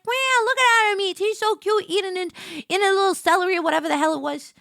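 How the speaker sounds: high-pitched mock cooing over something cute; retold cooing. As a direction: coo like a delighted zoo visitor.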